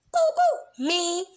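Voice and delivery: squeaky very high and loud; frantic Pinkie. Acted. Pinkie frantically volunteering herself, very high squeaky and loud. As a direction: bounce up and down begging. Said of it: "Pinky frantically waved".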